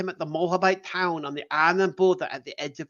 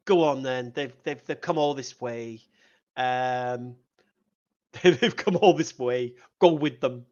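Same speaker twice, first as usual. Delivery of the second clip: casual God voice; 6 semitones lower, slower than usual. Retold or imitated. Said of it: "God says".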